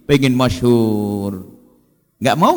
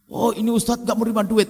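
higher, impressed gushing; admiring onlooker; 9 semitones higher, 4 dB quieter than usual. Retold or imitated. People admiring the ustadz who refuses money, impressed. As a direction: marvel at the pious ustadz. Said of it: "pengen disebut-sebut".

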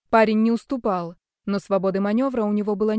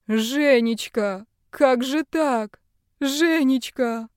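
slow, higher grieving wail; old man weeping; 5 semitones higher, 4 dB louder, much slower than usual. Acted. Old doctor grieves for his daughter, slow weeping wail. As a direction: cry out a lost name in grief. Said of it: "Герман Бобич плакал".

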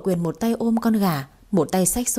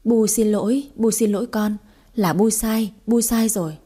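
panicked, quick apology pitched up; mother-in-law begs forgiveness, flustered and raised; hurried loud apology; 2 semitones higher than usual. Acted. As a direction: blurt out the apology in a rush. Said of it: "vội vàng nói lớn".

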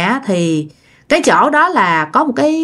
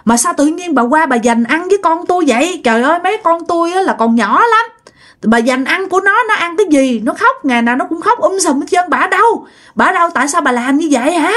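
high-pitched, indignant telling-off; acted scolding yell; 6 semitones higher than usual. Parents confront old woman eating their children's food, acted scolding yell. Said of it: "hai người mới la lên".

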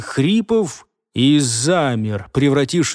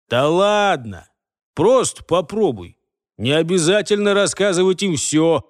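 reassuring; 3 semitones higher than usual. Acted. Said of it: "заверил его следопыт".

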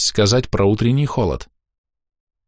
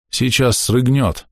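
tired; 5 semitones higher, slower than usual. Acted. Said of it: "устало сказал батька".

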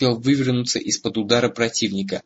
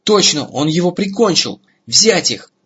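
loud, high-pitched cry of alarm; guard's shout; 7 semitones higher, 5 dB louder than usual. A narrator's reading. Guard rousing the others to seize the pair, shouting. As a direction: shout it out and order the attack. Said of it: "Кто-то из стражников крикнул".

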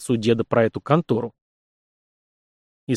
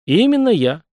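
decisive; 8 semitones higher, 4 dB louder than usual. A narrator's reading. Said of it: "решительно кивнул парень".

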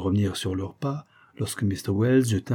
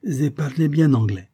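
put-on genial Italian-accented merchant, higher and louder; courteous old Italian tradesman; old Italian shopkeeper; 6 semitones higher, 5 dB louder than usual. A narrator's reading. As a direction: play a welcoming Italian vendor.

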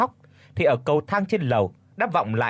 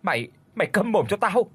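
bitter outburst; 7 semitones higher than usual. A narrator's reading. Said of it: "uất ức gầm lên".

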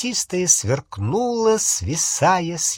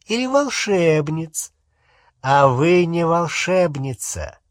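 condescending interrogator; 4 semitones higher than usual. Acted. Umbridge coldly interrogating a tearful woman.

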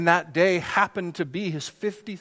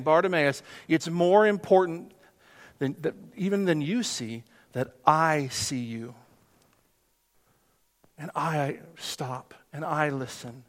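gentle Jesus voice; 3 semitones lower, 4 dB quieter than usual. Acted. Jesus voiced, slow and soft.

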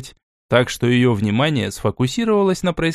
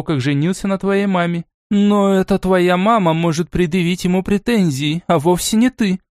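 a mild angry rebuke; a grandmother scolding, restrained anger rising; understated wrath toward a granddaughter; 6 semitones higher than usual. Acted. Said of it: "гневно ответила бабушка".

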